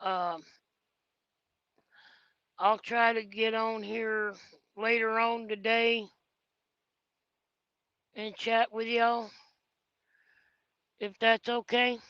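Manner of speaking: sleepy and drowsy, dozing off. Real, not acted. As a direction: talk like you're dozing off. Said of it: "because I'm dozing off".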